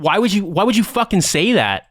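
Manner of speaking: retold in appalled, stammering disbelief. Jewish-Christian soldier questioning a lieutenant's remark, appalled.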